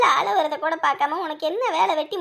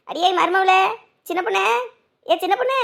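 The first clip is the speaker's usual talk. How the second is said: raised-voice summons; calling out; 3 semitones higher, 4 dB louder than usual. Acted. Mother-in-law calls her daughter-in-law, calling out. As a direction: call loudly for someone in another room.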